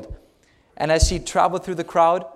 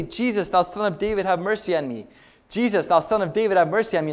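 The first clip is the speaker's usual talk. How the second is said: crying out; 4 semitones higher than usual. Acted. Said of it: "he began to cry out".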